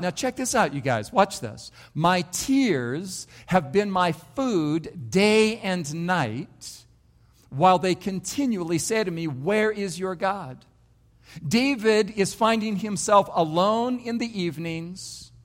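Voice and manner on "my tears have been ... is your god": slow, reverent reading of the psalm, words drawn out; slow scripture reading. Acted. Pastor reads King David's psalm to the congregation, slow and reverent. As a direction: lean into each line of the psalm like a prayer.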